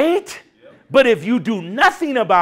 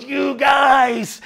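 angry Moses shout; 5 semitones higher than usual. Retold or imitated. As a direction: yell at the complaining people. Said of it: "and he goes".

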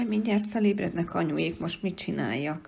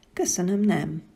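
polite; 3 dB louder than usual. Acted. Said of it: "kedves, bocsánatkérő mosollyal".

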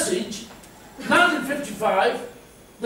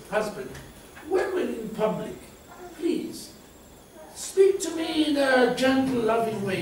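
softer, lower, gently pleading wife; soft plea; 3 semitones lower, 5 dB quieter than usual. Retold or imitated. Wife asking her husband to speak lovingly, soft plea. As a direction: ask gently, with a pause after each phrase.

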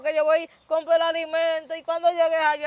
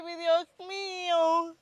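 tearful; 5 dB quieter, much slower than usual. Acted. Woman discovers her chickens were stolen.

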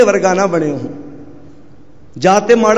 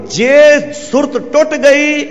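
slow, raised warning; drawn-out warning; 4 semitones higher, slower than usual. Real, not acted. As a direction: stretch it out slowly, pitched up.

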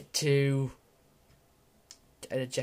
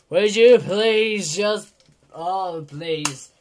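exasperated plea; 8 dB louder, slower than usual. Real, not acted. Begging frozen game again.

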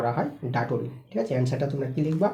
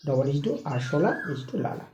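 slow dictation; slower than usual. Shown as a demonstration. Teacher spelling out the analogy.

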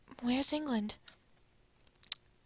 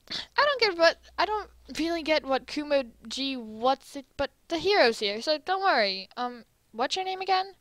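loud cheerful hero; 5 semitones higher, 5 dB louder than usual. Acted. Brash America character voice.

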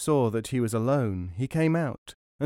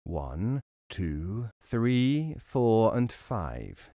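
robber counting; much slower than usual. Acted. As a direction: count slowly under your breath like a robber. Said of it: "He began to count".

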